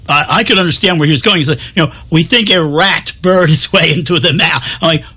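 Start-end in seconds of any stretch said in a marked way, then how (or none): 2.1-4.6 lightly put-on French accent. Traveller retelling the tour guide's explanation, light French accent. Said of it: "did that with a French accent".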